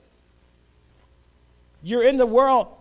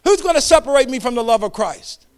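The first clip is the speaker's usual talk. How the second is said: louder, higher declaration of Who's; loud proclamation; 5 semitones higher, 10 dB louder than usual. Shown as a demonstration. Preacher shows congregation how to declare it, loud proclamation. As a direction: proclaim it for the whole room. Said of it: "That's what we need to say out of our mouth".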